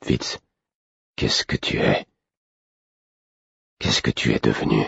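low, hushed, nearly begging; softly pleading guardian, low and hushed; almost pleading. Acted. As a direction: ask quietly, almost pleading. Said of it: "d'un ton presque suppliant".

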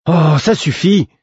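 high, loud, drawn-out exasperation; hissing annoyance. A narrator's reading. Sister to her play-acting brother, sharp exasperation. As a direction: cut off the nonsense, stretching it out. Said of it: "fit sa sœur d'une voix sifflante".

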